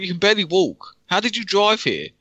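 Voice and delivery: high, disbelieving outburst; can't believe what you see; incredulous. Retold or imitated. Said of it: "I was just like".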